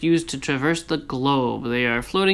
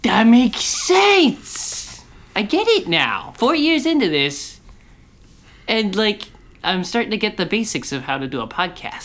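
mock sarcastic epiphany; 5 semitones higher than usual. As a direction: play it like a dumb revelation. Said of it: "And I was like".

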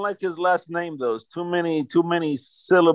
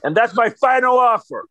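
mock final offer; 5 semitones higher, 3 dB louder than usual. Acting the GM's phone call.

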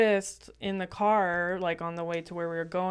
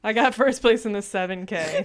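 louder, laughing mock pride; laughing boast; 6 dB louder than usual. Friend mocking the runner's seven K, laughing boast. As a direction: deliver the brag while breaking up with laughter.

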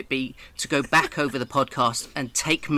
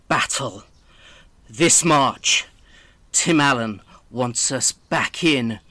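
movie trailer voice; 4 semitones lower, slower than usual. Pretend. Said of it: "in your best movie trailer voice".

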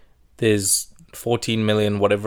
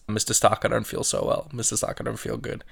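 faint whisper; 6 dB quieter than usual. Retold or imitated. Spider-Man telling Mr Stark he feels unwell, fading whisper. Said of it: "Spider-Man says".

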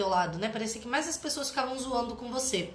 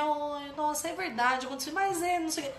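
higher, mildly wheedling parent; negotiating, wavering; 3 semitones higher than usual. Acted. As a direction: imitate a parent half giving in. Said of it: "sem ficar negociando". (imitação de pai negociando, hesitante)

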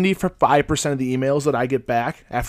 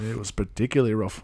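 put-on softer, dubious Irish accent; attempted Irish; 3 semitones lower, 7 dB quieter than usual. Host trading lines in the accent, attempted Irish. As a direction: have an uncertain go at Irish. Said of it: "Irish? I have no idea".

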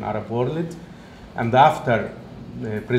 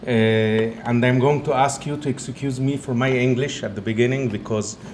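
Egyptian-Italian accent. Real, not acted. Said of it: "it's not the strong Egyptian accent, but it's also combined by an Italian accent".

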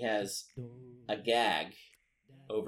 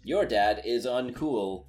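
robot dad taunt; 4 dB louder than usual. Acted. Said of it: "He says to some random person".

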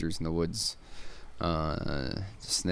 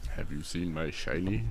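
low, creepy little creature asking; 3 semitones lower, 3 dB quieter than usual. Shown as a demonstration. Repeating the prompt to a friend in creature voice. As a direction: mimic the gollum-like plea. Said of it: "repeats the prompt voice".

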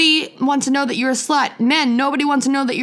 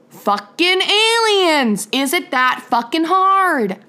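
exasperated; 3 semitones higher, slower than usual. Real, not acted. Exasperated punchline to religion argument.

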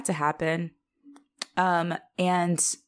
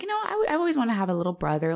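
put-on quick, higher, lightly excited girl; retold excitement; 5 semitones higher, much faster than usual. Emma warming to a little brother, retold with light excitement. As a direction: speed through it with mild mock excitement. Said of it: "she's kinda getting excited".

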